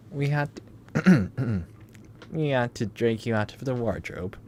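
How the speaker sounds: mock Eastern European tough guy; Russian accent. Player voicing the Russian captor with an Eastern European accent. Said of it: "Is that how that sounds? That accent? Eastern European?".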